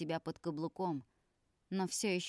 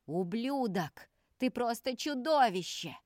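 loud, furious shout, pitched up; yelling in rage; 5 semitones higher, 5 dB louder, slower than usual. Acted. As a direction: scream the insult at him. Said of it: "кричал на тебя". (яростный крик)

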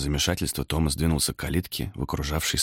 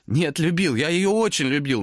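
anguished answer; 9 semitones higher, 3 dB louder than usual. A narrator's reading. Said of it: "надрывно отвечал Томас".

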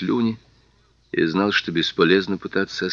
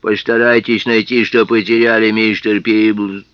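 slushy lisp; 6 dB louder than usual. Acted. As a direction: lisp it, drawing out the name. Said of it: "своим странным шепелявым голосом".

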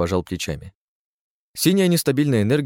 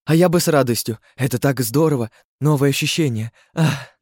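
eager; 5 semitones higher, 3 dB louder than usual. Acted. Katarsia eager, sighs.

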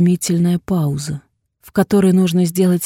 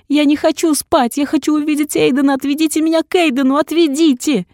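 high, loud, fast pleading scream; frantic scream; 10 semitones higher, 6 dB louder than usual. A narrator's reading. Heroine screaming demands at the doctor. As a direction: scream to be taken to him.

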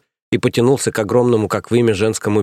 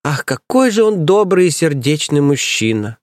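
swooning; 5 semitones higher than usual. Acted. Nanny swoons over priest.

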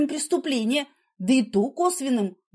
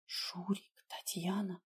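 names barely breathed out; whisper; 3 semitones lower, 16 dB quieter, slower than usual. A narrator's reading. Narrator whispers the names she fears he knows. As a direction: breathe the two names in secret. Frightened inner thought of names.

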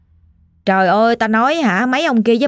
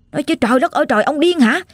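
retold scolding; 4 semitones higher than usual. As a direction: act out a wife's alarmed scolding of her husband. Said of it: "bà ngoại mới la". (giả giọng bà la mắng chồng)

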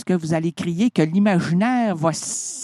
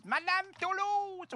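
voix de personnage; 12 semitones higher, 11 dB quieter, slower than usual. Acted. Sketch, addressing a character.

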